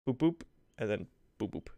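playful rhythm sounds. Retold or imitated. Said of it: "he just said something like".

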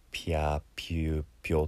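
"ピャーピューピョ" with a small イ glide after P; 拗音の手本. Shown as a demonstration. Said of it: "この小さなイをつける". (「ピャーピューピョ」を伸ばして手本)

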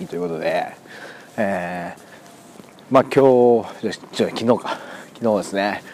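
talking between sips of a drink; while sipping a drink. Real, not acted. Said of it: "ちょっと飲みながら喋ります". (お酒を飲みながら話す)

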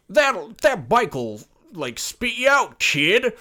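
a hint of a jaded older man; young but worn voice. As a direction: play a teen who sounds thirty-five. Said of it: "he talks like he's thirty-five".

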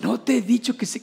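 loving scolding. Shown as a demonstration. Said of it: "como si fuera un regaño de mucho amor".

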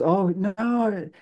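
lightly voiced shocked girl; mock shock. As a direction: sound appalled. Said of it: "She goes".

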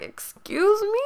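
a stunned retort to her mother; shocked disbelief. Retold or imitated. Confronting mom on Mother's Day.

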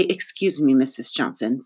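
prim demonstration of "Excuse me"; mildly instructing, showing the polite form; model politeness. Shown as a demonstration. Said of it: "you should say".

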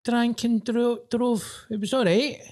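high-pitched mocking impression; mock nostalgic excuser. Mimicking someone defending drink driving, high mocking voice.

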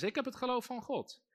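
hoog en luid voorzeggen; congregation call-out. Shown as a demonstration. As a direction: voorzeggen voor de gemeente, hoog. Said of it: "Zeg eens". (hoog voorgezegd voor de gemeente)

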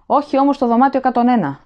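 a final panicked begging; terrified plea. A narrator's reading. Prisoner refuses Room 101 to the officer, terrified plea.

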